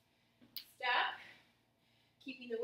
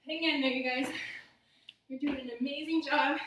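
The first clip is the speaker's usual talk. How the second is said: loud encouragement; 5 dB louder than usual. Real, not acted. Coach calling encouragement.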